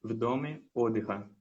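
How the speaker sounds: steady, careful read of a Russian story; reading aloud. Acted. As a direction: read the text aloud clearly for the teacher. Reads Russian text aloud. (leitura em voz alta, cuidadosa)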